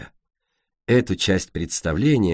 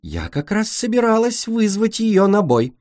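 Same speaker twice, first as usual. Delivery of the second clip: boastful; 10 semitones higher than usual. Acted. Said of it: "заявила Ореола".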